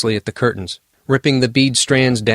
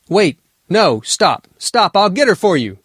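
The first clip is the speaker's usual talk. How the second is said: panicked pleading; 9 semitones higher than usual. Acted. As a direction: beg it to stop, frantic. Elf begs the monster to stop.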